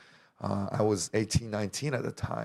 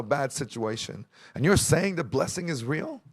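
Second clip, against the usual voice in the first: heated retold protest; 4 semitones higher than usual. Acted argument with his auntie.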